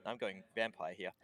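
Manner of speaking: lightly voiced kobold with an Italian lilt, fretting; worried little trader dreading his papa's anger; mock Italian kobold, mildly upset; kobold's fretful accent. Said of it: "He's like".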